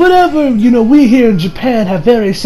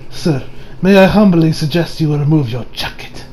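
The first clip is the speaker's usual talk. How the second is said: lower, softer deadpan delivery; serious deadpan; 5 semitones lower, 5 dB quieter than usual. Retold or imitated. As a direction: imitate a grave, polite request without emotion. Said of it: "with the most serious deadpan expression".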